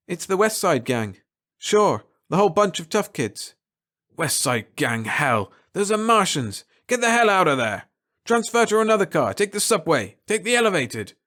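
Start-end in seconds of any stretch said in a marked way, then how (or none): 4.1-11.1 urgent commands. Acted. Captain orders him out.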